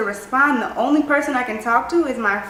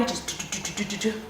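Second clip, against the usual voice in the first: heartbeat sounds; 11 dB quieter, faster than usual. Retold or imitated. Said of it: "a thousand little heartbeats".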